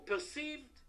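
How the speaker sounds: perceived said high and set apart; perceived lifted high above the words around it; stress on perceived. Shown as a demonstration. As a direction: lean hard on perceived, then pause. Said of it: "I emphasize the word perceived".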